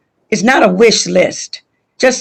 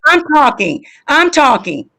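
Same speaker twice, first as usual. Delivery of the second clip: raised pitch, holding the floor; insistent; 5 semitones higher than usual. Real, not acted. Trustee to colleague who keeps cutting in, insistent. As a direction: insist over the interruption, voice pitched up.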